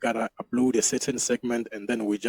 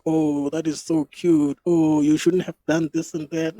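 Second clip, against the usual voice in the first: drawn-out, higher imitation of touched birthday people; mock gushing; 5 semitones higher, 3 dB louder than usual. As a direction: coo it slowly, imitating grateful gushers. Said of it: "They'll be like".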